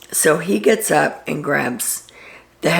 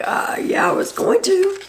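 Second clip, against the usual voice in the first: whisper; 13 semitones higher than usual. Retold or imitated. Turner caught, answering awkwardly.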